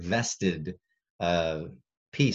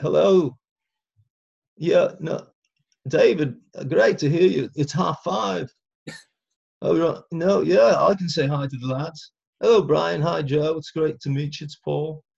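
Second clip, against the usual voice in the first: put-on crackly older voice, pitched up high; 9 semitones higher, 5 dB louder than usual. Retelling answering the phone as Paul McCartney: crackly older Paul McCartney voice. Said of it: "he's got more of a crackly voice".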